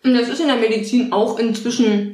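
talking while munching on a snack; nibbling snacks. Real, not acted. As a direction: speak around a bite of food. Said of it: "ich knabber schon wieder".

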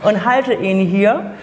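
slow, pen held between teeth. Shown as a demonstration. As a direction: speak around a pen in the teeth. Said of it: "ich habe jetzt einen Stift zwischen den Zähnen".

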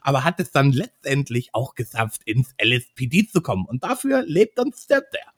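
lisping, slightly nasal cop voice; Barton Fox voice. Shown as a demonstration. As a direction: lisp through it like a goofy clever officer. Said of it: "Ich demonstriere euch einfach mal die Stimme".

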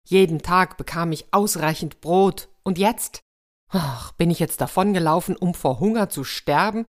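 self-pitying lament, lightly acted; mild mock weeping. Hungry soldier blames himself and the evil spirit, mildly tearful lament. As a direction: lament your own stupidity, a touch tearful. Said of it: "und begann zu weinen".

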